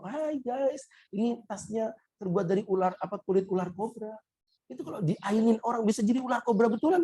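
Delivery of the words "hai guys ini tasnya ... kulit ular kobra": influencer voice. Retold or imitated. Mocking a flexing influencer.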